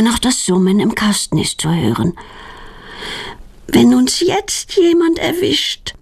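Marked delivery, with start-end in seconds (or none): 3.7-5.9 put-on higher, slow worried girl's question; a nervous girl whispering her worry; anxious question. A narrator's reading. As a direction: ask it timidly, afraid of getting caught. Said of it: "fragt Claudia ängstlich".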